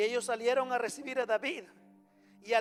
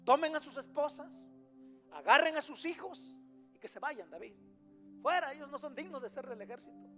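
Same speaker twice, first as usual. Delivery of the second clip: acted indignation; 4 semitones higher, 4 dB louder than usual. Acting out the resentful four hundred soldiers.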